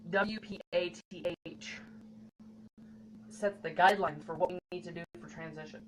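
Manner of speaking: talking through hiccups; hiccupping between words. Real, not acted. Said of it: "Sorry, I have the hiccups".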